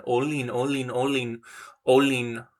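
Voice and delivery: murmured repeats, fading; quiet drilling. Shown as a demonstration. Learner softly repeats the word to remember it. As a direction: say it softly over and over to recall it. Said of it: "I feel like I know this one".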